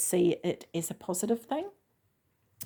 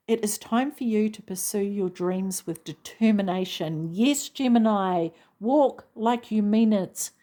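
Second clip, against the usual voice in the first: emphatic, louder rallying push; passionate; 2 semitones higher, 3 dB louder than usual. Real, not acted. Reader urging Gemini to pursue their dreams, passionately. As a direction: spur them on with real passion. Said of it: "I'm getting a bit passionate about this".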